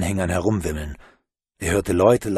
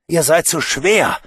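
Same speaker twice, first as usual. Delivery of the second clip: straining call; 6 semitones higher, 6 dB louder than usual. Acted. Alphonse straining to hold.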